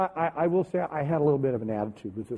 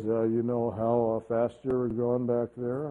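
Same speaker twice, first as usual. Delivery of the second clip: cop voice; 7 semitones lower than usual. Retold or imitated. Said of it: "he says".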